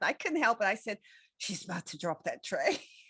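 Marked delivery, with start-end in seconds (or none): 1.4-2.8 mock quiet muttering, lower and quieter. Retelling an own remark made while a waitress carried a tray: imitating muttering under breath. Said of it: "I just said under my breath".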